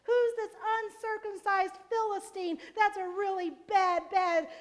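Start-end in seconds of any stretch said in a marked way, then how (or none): 0.0-2.6 mock outrage. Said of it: "he cries out to them".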